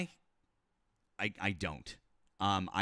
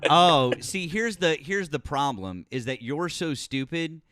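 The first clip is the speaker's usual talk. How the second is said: louder, heated tirade at the caller; angry rant; 6 dB louder than usual. Real, not acted. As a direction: lay into him, furious and loud. Berating a caller over sarcasm.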